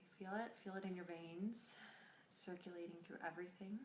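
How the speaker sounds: soft, unhurried meditation voice; guided meditation. Acted. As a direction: guide them gently through the breath, leaving long pauses.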